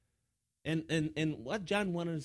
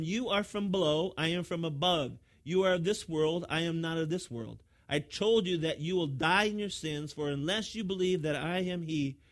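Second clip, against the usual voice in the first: emphatic, louder preacher's declamation; forceful scripture reading; 3 semitones higher, 6 dB louder than usual. Acted. Preacher reads Jesus' words to the crowd, forceful declamation. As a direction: proclaim each contrast firmly.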